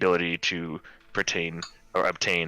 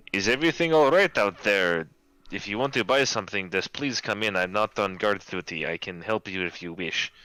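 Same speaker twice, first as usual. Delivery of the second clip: shopkeeper voice; 2 semitones higher than usual. Acted.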